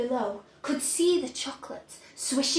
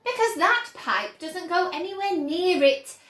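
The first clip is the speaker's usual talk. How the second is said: Wonka explaining; 6 semitones higher, 7 dB louder than usual. A narrator's reading.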